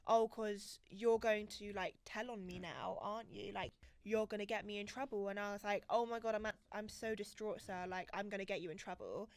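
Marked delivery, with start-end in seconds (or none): 0.1-5.3 slow, drawn-out mock taunt; slow taunting quote. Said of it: "He goes". 5.9-9.3 sarcastic. Retold or imitated. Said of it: "I was trying to be sarcastic".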